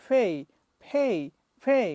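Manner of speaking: ফে said as fei with an ei glide; ফে spoken as fei; pay with ei. Shown as a demonstration. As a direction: end ফে on a clear ei. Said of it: "তো আমাদের বলতে হবে এটা".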